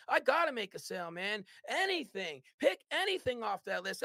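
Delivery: excited. Retold or imitated. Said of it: "So I'm getting excited".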